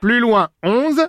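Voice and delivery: very slow, syllable by syllable, as if writing it down; slow dictation. Acted. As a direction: spell out the number while noting it. Repeating the number while noting it.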